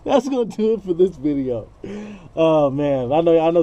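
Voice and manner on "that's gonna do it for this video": higher, brighter outro retake; a livelier second try at the sign-off; redone outro. Shown as a demonstration. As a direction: take the sign-off again, pitched higher. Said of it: "redo of outro after laughing".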